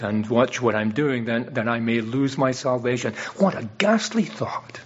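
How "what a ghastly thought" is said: breathy, hushed and horrified; a whispered shudder of dismay. Real, not acted. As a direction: let it fall away in a hush. Preacher recoils at idea.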